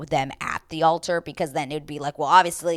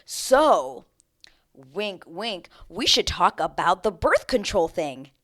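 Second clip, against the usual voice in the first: exaggerated wink wink suggestion; mock scripted nudge; mock sly hint; 4 dB louder than usual. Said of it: "it's just like".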